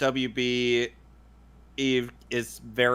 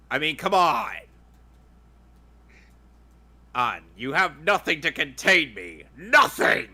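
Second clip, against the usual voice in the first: megalomaniac rant. Acted. Voicing the villain's threat.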